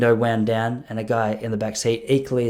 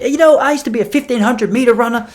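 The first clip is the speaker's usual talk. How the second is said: imitating the dealer; 12 semitones higher, 7 dB louder than usual. Dealer voiced in retold story.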